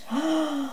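sigh. A narrator's reading. Dreamy breath before whispered love.

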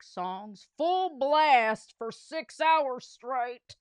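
gloating principal, lightly voiced; a smug principal lording it over the boys. Principal gloats at the boys, lightly voiced smug. Krupp voiced in read story.

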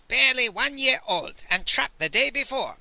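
high, loud tearful reply; hammed-up mournful voice; mock sniffle. A narrator's reading. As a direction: answer in put-on grief. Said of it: "Master Li sniffled".

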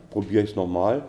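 normal talking voice

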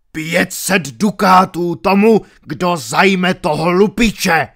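loud high roar. A narrator's reading. Baron roaring a bounty to soldiers, loud. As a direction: bellow a reward to the crowd. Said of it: "zařval baron".

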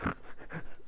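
short soft snort after crying; tearful snort. Acted. Crying boy snorts to his mother, tearful snort. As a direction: snort back the tears. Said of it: "snorted Alfred".

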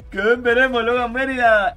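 high, loud call to a viewer. Real, not acted. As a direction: raise the voice and hail them. Calls out to viewer after laughing.

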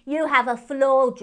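high, loud hare talking through crisps; spluttering with a mouthful of crisps; mouth full. Acted. Moon hare speaks to P J with his mouth full of crisps. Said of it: "with his mouth full".

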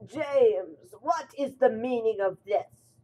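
a lightly voiced stern boss; stern questioning. A narrator's reading. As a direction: demand an answer from the engine. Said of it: "questioned Sir Topham Hatt".

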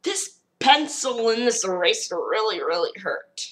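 a papery little figure in pain; cartoon paper man moaning about the pencil. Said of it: "I got Paper Man stand".

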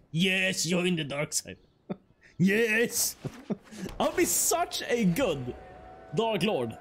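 lightly voiced gloating dark lord, drawn out; playful dark lord. Streamer hamming up a dark lord for viewers, playful villain. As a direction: relish it like a mock villain.

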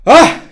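sharp, high, loud gasp-yell of fright; a sudden frightened shout; startled scream at a jump scare; startled cry. Real, not acted. Jump scare while playing.

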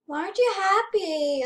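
mock viewer asking why; imitating viewers. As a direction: play the puzzled fans. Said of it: "you guys are probably like".

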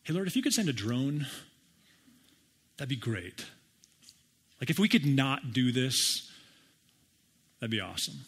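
a hint of a breezy request; lightly voiced casual plea; casual paraphrase. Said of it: "What did he say?".

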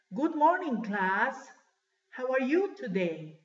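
lilting classroom greeting; teacher greeting class. Acted. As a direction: greet the whole class clearly. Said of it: "Así dice el profesor".

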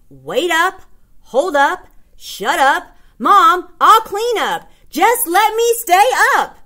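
put-on rising whiny child voice; whiny kid. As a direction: beg mom to stay up. Kid pleading with mom.

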